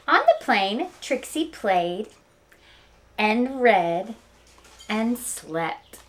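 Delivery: lively read-aloud storytelling; story narration. Acted. Teacher reading Knuffle Bunny to her students, storytelling voice. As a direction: tell it like story time for kids.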